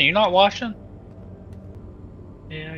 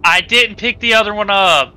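higher, louder indignant protest; panicking gamer; 9 semitones higher, 8 dB louder than usual. Real, not acted. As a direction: defend yourself in a panic. Panicked argument over almond water.

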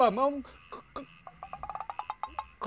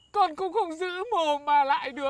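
crying out. Acted. Servant protests to scolding master.

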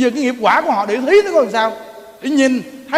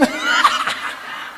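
breathy laugh; 3 dB quieter than usual. Real, not acted. Airy laugh.

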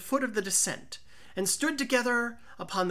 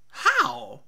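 startled outburst; 5 semitones higher, 7 dB louder than usual. Acted. Fortunato reacts startled.

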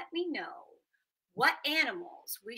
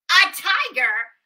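loud high slow disbelieving question; mock astonished old man; surprised; 9 semitones higher, 17 dB louder than usual. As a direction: gasp out the word in shock.

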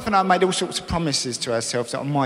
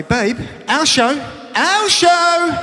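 slow, rising, higher and louder chant; excited; 11 semitones higher, 4 dB louder, much slower than usual. Retold or imitated. Husband calling wife to their show, slow excited chant. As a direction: build it up like a gleeful chant. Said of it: "I say".

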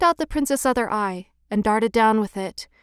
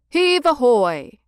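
slow, drawn-out hauling call; moderately raised work cry; sailors' shout; 2 semitones higher, 4 dB louder, slower than usual. A narrator's reading. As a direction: call it out long, like sailors on the ropes. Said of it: "they shouted as each chest came up".

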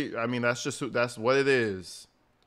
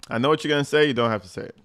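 mock girlfriend rant; 5 dB louder than usual. Mocking the girlfriend on the call.

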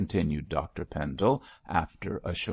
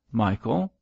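mild; 4 semitones higher, 4 dB louder than usual. A narrator's reading. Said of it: "said the bishop mildly".

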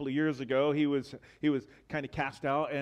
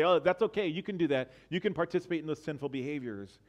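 mock permissive leader; 3 semitones higher, faster than usual. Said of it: "The leaders of the church kind of say".

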